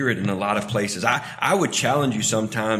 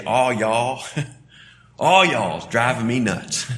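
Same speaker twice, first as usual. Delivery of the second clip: Southern twang; 5 dB louder than usual. Shown as a demonstration. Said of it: "in the South, we'd say".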